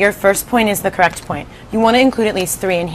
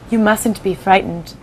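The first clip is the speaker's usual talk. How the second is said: slow, gentle, reassuring; calm a scared boy; kindly; 3 dB quieter, slower than usual. Acted. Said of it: "the ladybug said kindly".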